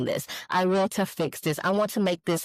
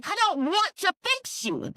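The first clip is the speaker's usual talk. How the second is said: higher, heated refusal; getting mad; 12 semitones higher than usual. Real, not acted. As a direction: let the irritation rise on every word. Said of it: "I'm getting mad".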